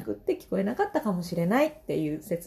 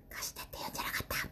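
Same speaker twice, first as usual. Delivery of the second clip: fast whispered coaching; mother whispering a reminder to her daughter; whispered prompt; 15 dB quieter, much faster than usual. Retold or imitated. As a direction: hiss the hint so only the child hears. Mother coaching daughter under breath.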